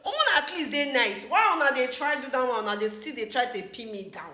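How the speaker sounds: imitating an aggrieved cry, easing down; imitated crying out. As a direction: retell his wounded complaint, lightly hammed-up. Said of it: "my guy is crying, he's crying out".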